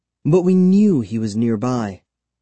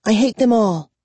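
high-pitched, bitter outburst; high, sneering loathing; angry declaration; 11 semitones higher, 4 dB louder than usual. A narrator's reading. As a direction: declare your hatred with force. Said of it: "she declared".

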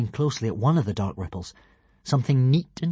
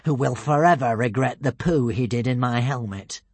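villainous yell; 10 semitones higher, 5 dB louder than usual. A narrator's reading. Alvin presents the rival champions to the crowd, yelling slowly. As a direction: start as a ringing announcement, ease down by the end. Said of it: "yelled Alvin the Treacherous".

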